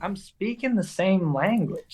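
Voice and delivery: slow, deliberate mock exasperation; exasperated granddad. Granddad to the server who cannot understand him, slow exasperation. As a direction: spell it out slowly, as a put-out granddad.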